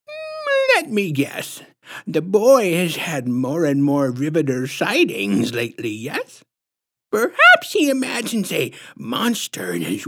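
high, sing-song, squishy lisping guesswork; patronizing lisp. A narrator's reading. Creepy visitor guessing what the boy has seen, patronizing lisp. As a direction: tease it out high and condescending, ending in a titter. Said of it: "patronizing, squishy-throated lisp".

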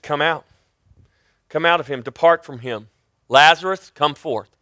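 understated, unexcited command; matter-of-fact command. Retold or imitated. Jesus speaks to demons and Lazarus, matter-of-fact command. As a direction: give the order simply, without raising your voice. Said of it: "he just very matter-of-factly did what".

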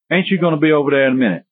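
quick rural Sussex accent. Shown as a demonstration. Lecturer showing students how the English used to talk, Sussex accent. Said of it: "well, that's kinda Sussex".

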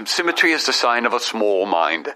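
imitating a British accent. Quoting a colleague who told him off, British accent. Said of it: "he's got the best accent".

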